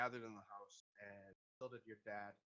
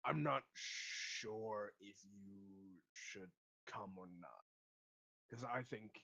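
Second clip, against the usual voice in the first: slow, hesitant, trailing off softer; conflicted; 2 semitones lower, 4 dB quieter, much slower than usual. Acted. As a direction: think it over reluctantly as you speak. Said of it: "Seems a little bit conflicted".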